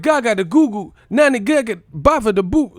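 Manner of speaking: put-on high, loud baby-puppet babble; hammed-up cartoon baby talk; Muppet Babies voice. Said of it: "talking like Muppet Babies".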